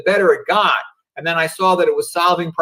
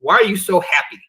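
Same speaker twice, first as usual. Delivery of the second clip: a lightly voiced teasing son, pitched higher and climbing toward the end; imitating his kid; 5 semitones higher than usual. Son teasing dad about his dull life, lightly mimicked. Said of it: "Like my kid said to me".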